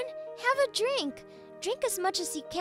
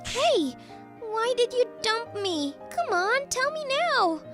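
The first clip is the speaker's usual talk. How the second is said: put-on drunk demanding; 5 semitones higher than usual. She is already drunk.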